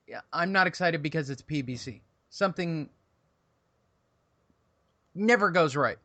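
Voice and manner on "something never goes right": real stumble, long hang after the first word; tongue-tied. Real, not acted. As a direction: get stuck after "Something", then push the rest out. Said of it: "I actually got tongue-tied on that".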